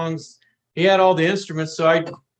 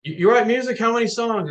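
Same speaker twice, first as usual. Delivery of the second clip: light impression of a famous singer asking, a bit higher; impression of the singer; 7 semitones higher than usual. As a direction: lightly voice the singer's curious questions. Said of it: "and he always talks like this".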